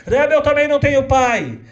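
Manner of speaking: put-on an orphan girl in line; pleading little girl. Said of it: "fila de meninas pedindo". (menina órfã clamando, aguda)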